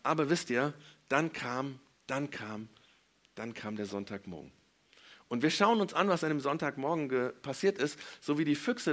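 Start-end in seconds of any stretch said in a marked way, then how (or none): 1.1-4.5 hushed build-up, fading with each repeat; spannungsvoll. Real, not acted. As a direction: pause and drop softer to raise suspense. Spannung vor dem Sonntagmorgen. (immer leiser, mit Spannungspausen)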